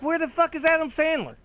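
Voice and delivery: mock outburst. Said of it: "I was like".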